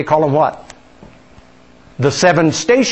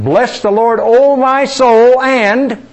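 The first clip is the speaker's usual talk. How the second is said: higher, louder, slow exultant praise; rising praise; 5 semitones higher, 3 dB louder, much slower than usual. Shown as a demonstration. Pastor repeating the psalm line with rising worship, louder and higher. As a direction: lift it up in worship. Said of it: "Then it makes a repetition of it".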